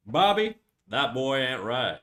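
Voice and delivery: half-successful cartoon dad impression; slow down into a cartoon Texan dad; Hank Hill. Streamer trying a requested cartoon dad, unsure impression. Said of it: "How would Hank Hill go?".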